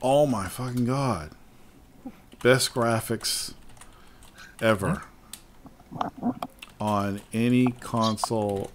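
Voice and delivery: slow, halting dictation with long gaps; word by word, at typing speed; typing aloud. Real, not acted. Writing a teasing tweet to a gamer, slowly dictating aloud.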